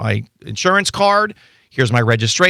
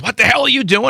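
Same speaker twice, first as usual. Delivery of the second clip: trooper's mock yell, a bit higher; retold trooper yelling; 9 semitones higher than usual. Trooper yelling at a driver who didn't pull over, mock angry yell. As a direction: imitate the angry trooper's holler, half-hearted. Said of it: "screaming and hollering".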